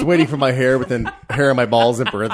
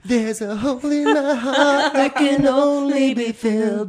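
laughing; 11 semitones higher, slower than usual. Pretend. Mock pickup line, laughing.

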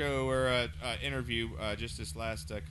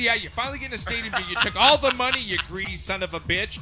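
loud, higher, heated tirade; shouting sports rant; angry rant; 5 semitones higher, 5 dB louder than usual. Real, not acted. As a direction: tear into the team. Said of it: "I'm gonna go a little John Gruden rant here".

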